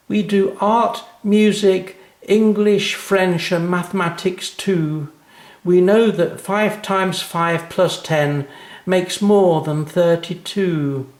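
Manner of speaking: put-on high, slow sing-song recital of a child; a schoolgirl proudly reciting her poem; little girl reciting. A narrator's reading. Anna keeps reciting her poem.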